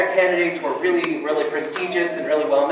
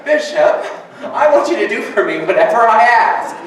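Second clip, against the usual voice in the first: mock demand to the bishop; 5 semitones higher, 5 dB louder than usual. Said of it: "call the bishop right now and tell him".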